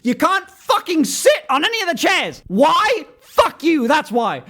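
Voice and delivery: exasperated, hammed-up rudeness; mock belligerent pitch. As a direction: shout down the imagined objection. Acting out a mock restaurant pitch.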